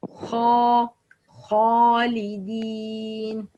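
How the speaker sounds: dark, back kha opening خالدين; heavy kha. Shown as a demonstration. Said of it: "it should always be heavy".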